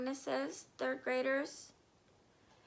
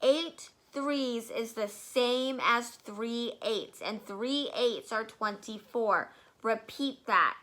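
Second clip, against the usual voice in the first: booming tyrant; 4 dB louder than usual. Acted. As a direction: pound the sum into him. Trunchbull shouts the lesson.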